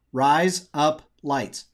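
"Rise up lights" drawn out slowly in a light Australian accent; slow mock Australian accent. Shown as a demonstration. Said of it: "with an Australian accent".

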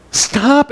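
high, abrupt "Stop"; emphatic command. Shown as a demonstration. Preacher showing the Greek emphasis, emphatic "Stop". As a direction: punch a single "Stop" up high. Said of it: "It's emphatic".

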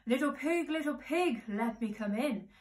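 wolf's singsong call to the pig; lightly voiced wolf calling at the door; coaxing wolf.

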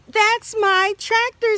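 high and loud overjoyed exclamation; so happy. Acted. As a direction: burst out with joy at finding it. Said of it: "He's so happy".

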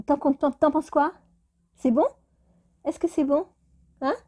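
high pet-talk voice; talking to the cat. Real, not acted. Owner asking her cat Ivy if the treat is good, in a high pet voice.

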